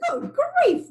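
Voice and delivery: high, loud exasperated roar; lion's roar. A narrator's reading. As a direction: bellow in annoyance. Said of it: "roared the lion".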